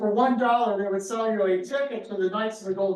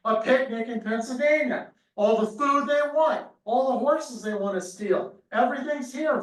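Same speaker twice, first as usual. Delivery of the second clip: mock gleeful cry; 4 semitones higher than usual. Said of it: "Brigade cries out".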